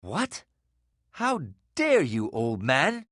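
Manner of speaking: slow, indignant challenge. Acted. Virgil rebuking the old man for insulting Nasruddin, indignant.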